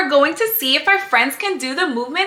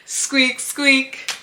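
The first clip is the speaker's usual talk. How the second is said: mouse squeaking; 5 semitones higher, slower than usual. Pretend. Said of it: "And she says".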